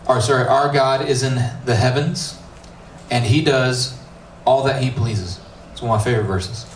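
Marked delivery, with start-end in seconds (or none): 0.5-5.4 slow, measured Bible reading; scripture reading. Acted. Pastor reading the psalm to his youth group, measured. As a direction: read the psalm aloud with weight.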